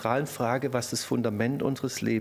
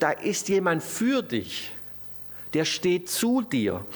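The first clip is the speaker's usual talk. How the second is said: slow, raised, emphatic call; rallying call; 5 semitones higher, slower than usual. Acted. Preacher voices Paul's battle cry to believers, rallying call. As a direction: call it out as encouragement, word by word. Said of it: "wo Paulus ruft".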